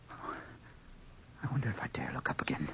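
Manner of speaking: slow hushed dread; slow fearful whisper. Acted. Trapped man whispering to himself in the dark, slow and afraid. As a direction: breathe it slowly, afraid to look.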